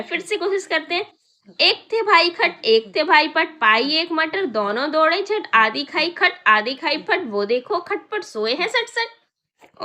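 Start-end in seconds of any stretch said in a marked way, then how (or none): 1.6-9.8 tongue twister. Shown as a demonstration. Teacher to class, trying the tongue twister again. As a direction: rattle the rhyme off brightly. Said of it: "इसको हमें ना जल्दी जल्दी बोलना है".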